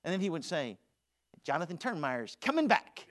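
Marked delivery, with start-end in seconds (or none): 1.4-3.1 mild mock-proud announcement; cocky teen boast. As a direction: proclaim your comeback, half-joking. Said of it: "He'd say it just like that".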